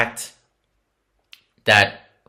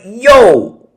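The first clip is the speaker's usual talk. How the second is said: scolding the family; 7 semitones higher, 9 dB louder than usual. Retold or imitated. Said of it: "Which I'm like".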